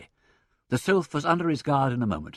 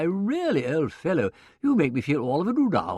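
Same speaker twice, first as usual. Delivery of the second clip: higher, dithering silly-ass gentleman; flustered toff; 6 semitones higher, 4 dB louder than usual. A narrator's reading. Monocled gentleman to impresario, flustered. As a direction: play the foppish dimwit. Wimsey playing flustered fop.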